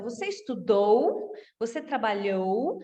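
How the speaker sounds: "estudou" and "trabalhou" lifted at the end as questions; rising question tune on "estudou", then on "trabalhou"; question intonation. Shown as a demonstration. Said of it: "basta a gente dar uma entonação".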